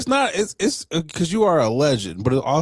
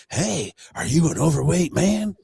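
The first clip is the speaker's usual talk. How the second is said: mock ad pitch; 4 semitones higher than usual. Mocks Instagram ad pitches.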